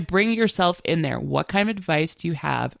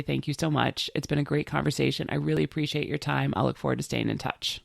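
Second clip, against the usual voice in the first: kindly; 2 semitones lower, 5 dB quieter than usual. Shown as a demonstration. Politely closing a networking chat with a contact, kindly. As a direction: wrap up with quiet, gracious thanks. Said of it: "then you very kindly say".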